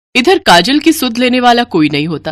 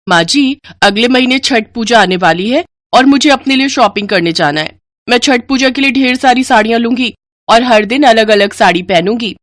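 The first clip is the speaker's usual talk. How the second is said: a bit higher, sweet and demanding; lightly higher pampered bride voice; spoiled younger daughter-in-law; 4 semitones higher than usual. Acted.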